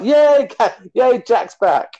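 high, drawn-out "yay" of mock fan joy; excited cheer. Fan greeting Jack's return, high excited cheer. Acting out fan reaction to comeback.

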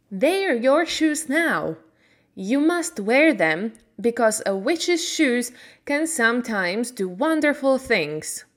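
a hint of a friendly old fairy woman; kindly good witch. Good witch thanking Dorothy, lightly voiced.

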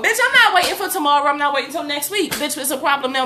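fired-up retelling of her rage; heated. Retold or imitated. Retold fury at the neighbour.

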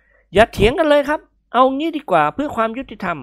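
high, slow call for calm; peacemaking Nikon. Acted. Guest raising both hands to end the argument, conciliatory. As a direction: settle the squabble firmly.

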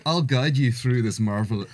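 put-on botched Scottish accent wandering towards Irish; terrible Scottish accent. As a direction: attempt Scottish and do it badly. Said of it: "oh, no, it's terrible".

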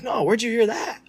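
playing dumb. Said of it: "I was like".

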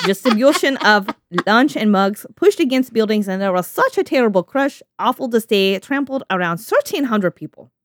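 put-on Russian accent, reading a diary; deliberate, hammy Russian accent. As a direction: read it in your best amateur Russian accent. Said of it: "my best Russian accent".

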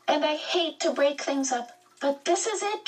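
can barely hold in the news; quivering with excitement. Acted. Charles Wallace bursting in on Meg and Calvin, excited. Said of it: "His voice quivered with excitement".

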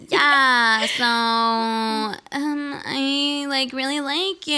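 a hint of a whiny contestant; mocking whiny girl. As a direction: mimic her whiny, breathless crush talk. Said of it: "that's how she talked".

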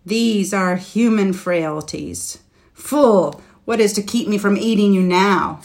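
loud, menacing dragon. Acted. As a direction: threaten him, rising to a roar. Dragon threatens knight, louder.

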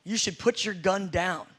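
low, soft, steady command; calm authority. Retold or imitated. Believing deputy calmly tells the robber, soft and low. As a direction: stand tall and speak with quiet certainty. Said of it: "you would stand tall".

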